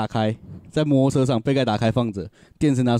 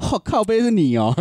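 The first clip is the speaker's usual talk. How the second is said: surprised recognition; 8 semitones higher than usual. Retold or imitated. Cop recognizes the speaker.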